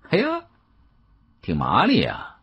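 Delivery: sharp high yelp of surprise on the first word; startled exclamation. Acted. Young man caught off guard by the quick refusal, surprised. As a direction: caught off guard, then mutter it. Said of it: "年轻人有一些愕然".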